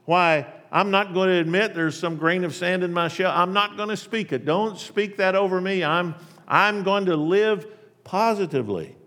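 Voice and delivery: high, fast, loud chirpy self-talk; mock upbeat affirmations; forced positivity. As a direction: pump yourself up with cheery denial. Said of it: "the warm atmosphere of wishful thinking".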